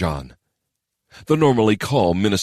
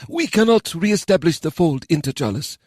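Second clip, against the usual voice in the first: stately elder voice; 11 semitones higher than usual. Acted. Council elder addresses council.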